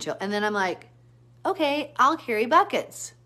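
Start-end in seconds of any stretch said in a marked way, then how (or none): 1.5-3.1 high, loud, slow declaration; retold put-upon determination; exasperated resolve. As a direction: announce it loudly, drawn out. Retells resolving to haul water.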